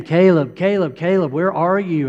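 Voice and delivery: worried dad calling his son. Retold or imitated. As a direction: call his name across a big hotel. Father calling for lost son.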